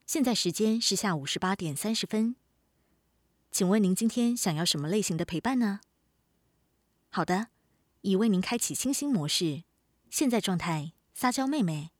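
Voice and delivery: even, polite automated assistant voice; smart speaker. Acted. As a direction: read it like a voice assistant announcing modes. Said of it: "欢迎使用语音陪伴系统".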